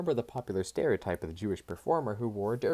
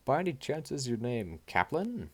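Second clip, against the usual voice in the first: put-on Jewish accent; 6 semitones higher than usual. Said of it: "Katie spoke in a Jewish accent".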